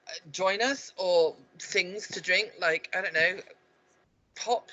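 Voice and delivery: mock London accent. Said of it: "Still London".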